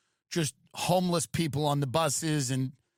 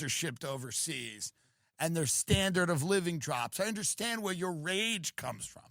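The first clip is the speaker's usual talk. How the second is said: mock soothing counselor. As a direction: soothe him, hammed-up empathy. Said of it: "it's kind of interesting being like".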